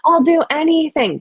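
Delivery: mock groveling. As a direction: ham up a desperate crier.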